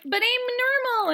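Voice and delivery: high, slow, drawn-out plea; mock whiny protest. Odd contestant defending herself to the audience, mock whiny.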